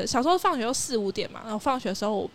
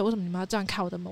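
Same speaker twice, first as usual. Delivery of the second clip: stern fast complaint; 2 semitones lower, 3 dB quieter, faster than usual. Retold or imitated. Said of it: "我就很严肃地讲这件事情".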